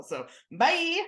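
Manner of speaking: high laughing goodbye. Real, not acted. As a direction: toss it off with a laugh. Mocking the convicted man, laughing.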